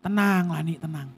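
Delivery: low, settling self-reassurance; menenangkan diri. Retold or imitated. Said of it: "Saya mengeluarkan kata-kata positif". (menenangkan diri dengan nada rendah)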